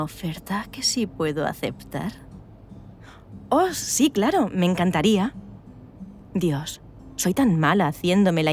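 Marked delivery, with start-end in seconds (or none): 3.5-5.3 eager. Acted. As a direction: jump at the offer, flustered. Flustered eager acceptance. (sí entusiasmado y nervioso)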